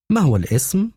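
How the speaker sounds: sounding official on the phone; disguised voice. A narrator's reading. Deborah asks the caller's name in a put-on voice. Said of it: "وقد غيرت صوتها".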